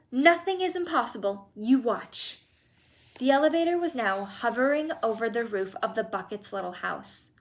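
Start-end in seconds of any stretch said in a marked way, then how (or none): 0.1-2.4 Wonka voice. Acted. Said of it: "cried Mister Wonka".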